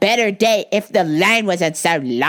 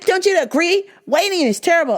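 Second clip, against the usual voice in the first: mocking the customer; 9 semitones higher, faster than usual. Customer seeking agreement, voiced.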